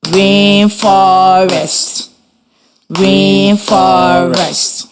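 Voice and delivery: Rainforest said slowly in three beats for the class to copy; slow syllable by syllable. Shown as a demonstration. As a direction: clap it out, RAIN-FOR-EST. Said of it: "Your turn".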